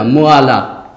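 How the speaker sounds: low मुआला, split as mu-aa-laa; mispronounced माला. Shown as a demonstration. Teacher showing a wrong reading, low मुआला as mu-aa-laa. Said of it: "क्या हो जाएगा?".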